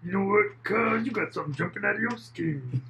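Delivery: high, put-on skit voice; comedian imitation. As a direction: deliver the bit like the comic. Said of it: "That was one of his skits".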